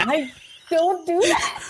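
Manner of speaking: mocking an upspeak ending; mock upward intonation. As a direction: lift the end of "that" like a question. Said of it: "end more sentences in an upward intonation".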